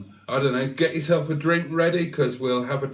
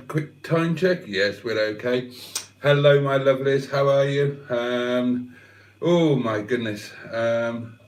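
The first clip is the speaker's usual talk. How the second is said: out of breath. Real, not acted. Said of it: "let me get my breath".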